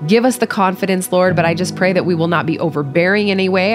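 heartfelt opening prayer. Real, not acted. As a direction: pray earnestly before the study. Opening prayer before Bible study.

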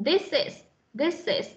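"this is" run together, final s carried into is; teacher's linked model of "this is"; linked sounds. Shown as a demonstration. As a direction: link the s of "this" onto "is". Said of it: "Chúng ta sẽ nối nguyên âm này".

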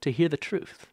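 soft, intense questioning; mock interrogation. YouTuber interrogating a fan, hushed and mock-intense.

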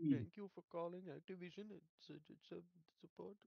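put-on Indian accent. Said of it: "Indian accent".

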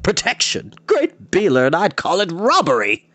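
high-pitched, incredulous protest; indignant outburst. A narrator's reading. Bard's indignant outburst at demand.

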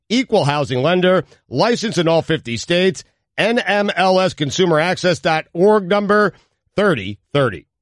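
upbeat, punchy podcast ad read; sponsor ad read. Acted. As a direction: read it as a polished sponsor spot.

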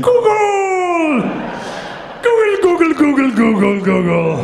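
high, loud rapid-fire hollering that slides down in pitch; mock-frenzied shouting, repeat it like a chant; enthusiastic caveman. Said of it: "presented myself as an enthusiastic caveman".

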